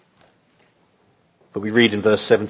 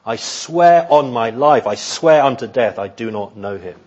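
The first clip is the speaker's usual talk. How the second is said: vehement denial. Acted. Peter's total denial of Jesus, solemn and vehement. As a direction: swear it solemnly, then let it fall. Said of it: "you couldn't have had a stronger".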